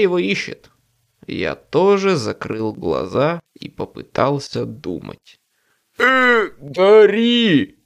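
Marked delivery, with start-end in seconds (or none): 6.0-7.8 uncertain, halting call; hesitant. A narrator's reading. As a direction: start unsure, trailing off. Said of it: "неуверенно начал Боб".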